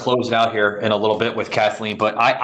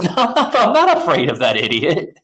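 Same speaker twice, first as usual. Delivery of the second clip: quoted with a laugh, a bit higher; laughing dismissal; 5 semitones higher than usual. Retold or imitated. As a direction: brush it off laughing.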